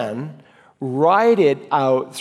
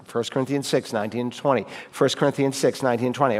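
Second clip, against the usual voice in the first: fast rote recital; 3 dB quieter, faster than usual. Shown as a demonstration. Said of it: "I got it three times in a row".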